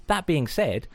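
measured, tongue-in-cheek announcer read; scripted disclaimer read. Acted. Podcast host warns listeners about swearing, mock-official announcer read. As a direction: read it like an official content warning. Reads the podcast's warning intro.

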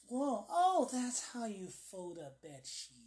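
mock dawning realization, jumping high then settling; amazed viewer. Guys watching a bed sheet folding video, mock amazement. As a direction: act out a surprised revelation. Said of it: "and it's like".

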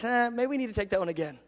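God. Retold or imitated. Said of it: "He goes".

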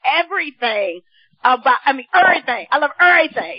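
everything said as "ev-ry-thing", dropped e; dc accent. Shown as a demonstration. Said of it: "that's how we say it in D C".

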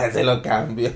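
slow, amused repeat; laughing echo. Real, not acted. Repeating a friend's odd remark back, laughing echo. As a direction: draw it out through a laugh.

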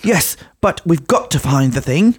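high, slow, hammed-up earnestness; children's TV treasure hunter. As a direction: plead like a cheesy children's show heroine. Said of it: "that sort of thing".

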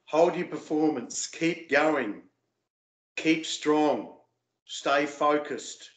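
steadying yourself mid-performance; inner coaching voice. Retold or imitated. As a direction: coach yourself through it in measured phrases. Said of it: "little voice in my head is telling me".

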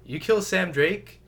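high, loud bad-actor confrontation; mock accusation. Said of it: "when he's like".

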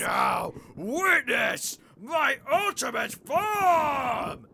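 slow, loud, high villain proclamation; slow theatrical villain menace. Acted. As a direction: proclaim your ultimate form grandly. Demon transforms triumphantly.

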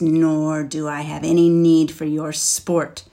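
loud, hissing dragon threat. Acted. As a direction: hiss the warning at him. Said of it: "Then he added with a hiss".

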